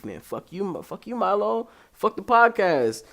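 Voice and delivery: rising into a loud mock rant; a hint of an annoyed listener; mock angry listener. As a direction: tell him off like a fed-up fan. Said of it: "you gonna be like".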